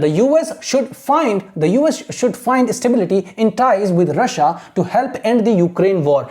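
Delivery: very slow, deliberate reading aloud; teacher reading for imitation; slow model reading. Shown as a demonstration. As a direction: read each word slowly for learners to repeat. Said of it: "आपको बस imitate करना है the way I am reading".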